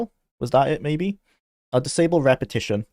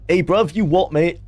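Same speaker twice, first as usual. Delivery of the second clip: lightly put-on Londoner, pitched up; mock London accent; 5 semitones higher than usual. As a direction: greet like a mock London lad. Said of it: "hear from Fallout Londoners".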